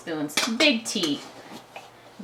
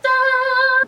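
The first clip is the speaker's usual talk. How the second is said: triumphant ta-da; 7 dB louder than usual. Real, not acted. Reveal of baked muffins.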